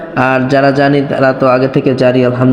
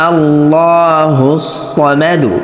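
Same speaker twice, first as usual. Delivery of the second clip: slow melodic recitation; recited slowly; much slower than usual. Shown as a demonstration. Teacher modelling the verse for students, slow chant. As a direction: draw out قل هو الله like tilawa.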